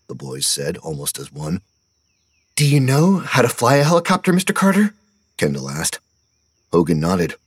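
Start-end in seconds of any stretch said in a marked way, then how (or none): 2.5-4.9 high, wide-eyed question; a boy in awe; awed kid. A narrator's reading. Kendall asking Mister Carter, high awed voice.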